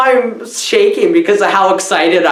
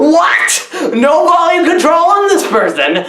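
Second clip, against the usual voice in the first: yelling; 8 semitones higher than usual. Real, not acted. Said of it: "I love yelling".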